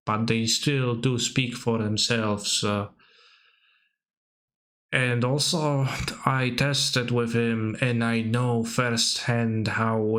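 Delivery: slow, drawn-out imitation of an endorsement; mock article endorsement. Imitating a pro player endorsing a buddy, slow mock praise. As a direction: spell out the praise slowly, pausing on uhs. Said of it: "writing, you know, an article for the C F B and saying".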